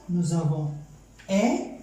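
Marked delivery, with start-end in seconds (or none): 1.3-1.8 "é" set apart as a syllable of its own; isolated syllable. Shown as a demonstration. Teacher splitting éléphant for learners, "é" as an isolated syllable. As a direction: sound out "é" alone, held briefly. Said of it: "première syllabe".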